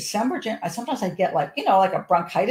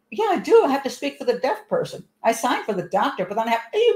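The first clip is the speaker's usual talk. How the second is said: indignant retort; 5 semitones higher than usual. Retold or imitated. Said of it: "I'm like".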